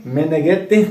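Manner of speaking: Meneghetti with a light Italian accent, rising at the end. Shown as a demonstration. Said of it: "tem que falar com o sotaque italiano".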